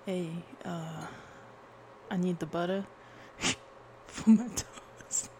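tentative mock Brooklyn accent; half-hearted Brooklyn accent. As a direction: try a Brooklyn accent, breaking into giggles. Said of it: "let's do Brooklyn".

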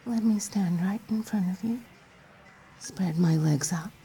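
breathy teasing whisper; seductive whisper. Acted. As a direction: whisper it close and playful.

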